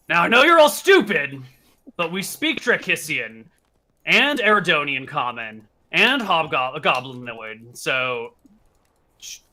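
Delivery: loud, scornful goblin threat; angry hobgoblin. Acted. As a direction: sneer at the stupid prisoners. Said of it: "and says".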